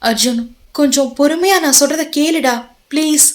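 pleading woman. Acted. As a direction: plead gently with him to listen. Saindhavi begs Arjun to listen.

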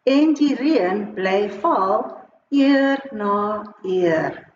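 put-on measured line-by-line children's poem; teacher modelling a rhyme in short, separated phrases; poem read for repeating. Shown as a demonstration. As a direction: read out each phrase for learners to echo, leaving pauses. Reads poem for pupils to repeat.

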